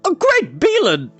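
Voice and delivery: high, slow startled cry; startled exclamation. A narrator's reading. The bard startled to see Eilonwy, surprised cry. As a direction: gasp in surprise.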